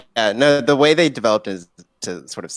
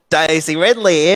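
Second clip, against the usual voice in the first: higher-pitched Aussie "Daisy Ridley"; playful Australian twang; Aussie accent; 4 semitones higher, 4 dB louder than usual. Shown as a demonstration. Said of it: "wants me to do an Aussie accent".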